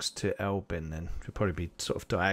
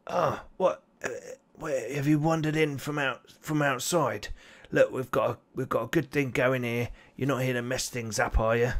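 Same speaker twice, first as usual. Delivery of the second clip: big goblin voice; 3 semitones higher than usual. Acted.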